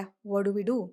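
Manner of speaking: "What" said without its final T; "What do we do" linked, no T in "What"; dropped T. Shown as a demonstration. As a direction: run "What do" together as "whaddu". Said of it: "what-ന്റെ T എടുത്ത് കളയാ".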